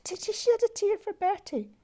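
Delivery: "Did you shed a tear for Bertie?" whispered in disbelief, voiceless; hushed whisper. Retold or imitated. Daughter whispering her question to her father in disbelief. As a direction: breathe it out in awe.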